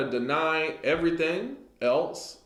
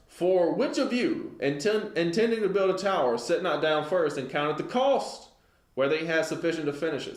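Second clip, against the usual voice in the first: raised, measured scripture reading; 3 semitones higher than usual. Real, not acted. Preacher reading the verse to his congregation, raised and measured.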